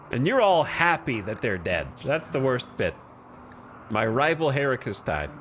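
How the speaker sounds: mock Birmingham gang-boss accent, high and pressed; Peaky Blinders accent. Colony leader scolds colonists at the graveside, in a Birmingham accent. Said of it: "I don't know why I just went into that accent".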